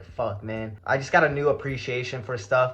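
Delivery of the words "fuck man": low, soft, subdued sigh of a curse; a little sad. Retold or imitated. Thinking about kids living at the hospital, quietly sad. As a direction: say it quietly, a touch of sadness. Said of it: "I was getting a little sad about emotion".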